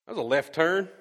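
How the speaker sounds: sudden high, loud whoa of surprise; surprised whoa. Retold or imitated. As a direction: gasp it like the verse caught you off guard. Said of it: "you go".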